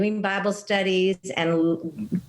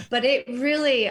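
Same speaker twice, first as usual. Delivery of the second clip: laughing; 5 semitones higher than usual. Real, not acted. Laughing after her accent bit.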